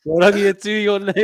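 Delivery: high, mocking imitation of an Aussie local; S1 mocking how Aussie locals greet Māori, high teasing voice. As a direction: ham up the local's question, pitched well up. Mimicking Aussie locals, laughing.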